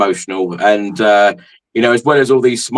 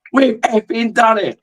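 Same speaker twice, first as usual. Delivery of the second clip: mock triumphant yell, pitched much higher; half-hearted victory shout; retold shout; 12 semitones higher, slower than usual. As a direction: relive the final-whistle shout. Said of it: "I just shouted".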